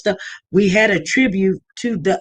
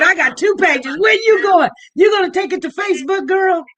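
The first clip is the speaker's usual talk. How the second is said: teasing; 8 semitones higher than usual. Real, not acted. Host teasing a caller about her notes, high and playful.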